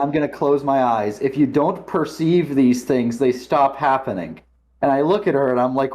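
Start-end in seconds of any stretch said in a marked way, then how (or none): 0.0-4.4 mystic. Retold or imitated. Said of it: "Why are you talking like a mystic?".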